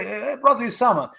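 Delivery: nosy neighbour. Retold or imitated. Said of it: "come by ... and say".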